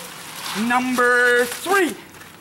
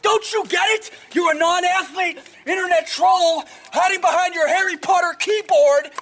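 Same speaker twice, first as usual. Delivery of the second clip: shouting; 5 semitones higher than usual. Real, not acted. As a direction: bellow it at the haters. Yelling at internet trolls.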